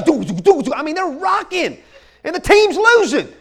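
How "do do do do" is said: punchy vocalised thumping beat; imitated stadium beat. Preacher mimicking the stadium screens, vocalised beat. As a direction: thump out a crowd-pumping beat with the voice.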